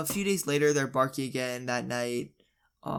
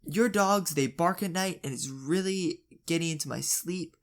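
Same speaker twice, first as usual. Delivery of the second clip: scolding; 3 semitones higher than usual. Retold or imitated. Neighbour tells dad off about his barking dogs, scolding. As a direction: act out an indignant neighbour's complaint. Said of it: "then the lady starts scolding him".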